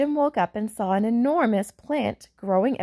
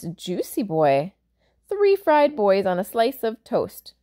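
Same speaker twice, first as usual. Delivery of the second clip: giant voice; slower than usual. Acted. Giant relishing eating boys.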